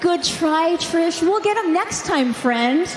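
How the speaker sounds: put-on Becky Lynch's accent. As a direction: mimic a rival's accent in a mild jeer. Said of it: "said in your stupid little accent".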